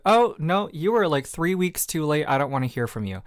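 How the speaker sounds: playfully aggressive brush-off, starting high and loud; a little aggressive. Acted. Host acting out her own refusal of a late apology, a little aggressive. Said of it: "sorry for getting a little aggressive there".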